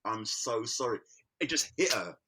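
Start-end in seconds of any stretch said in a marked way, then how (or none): 0.1-1.0 slow, soft, a touch tearful sorry; a hint of crying, drawn out; mock crying apology. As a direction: imitate her tearful apology, slowly. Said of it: "started crying and go".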